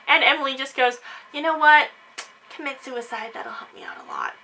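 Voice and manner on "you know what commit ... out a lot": a cold, much softer whisper; sinister whisper. Acted. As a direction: hiss it like a secret wish. Emily's cruel aside.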